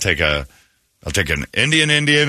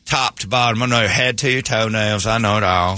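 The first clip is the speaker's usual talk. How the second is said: boastful mock hillbilly accent; hillbilly surgeon. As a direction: brag like a backwoods hillbilly doctor. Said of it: "I've got a hillbilly about to cut me".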